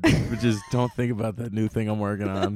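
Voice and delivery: laughing mock advice. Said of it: "voicing himself".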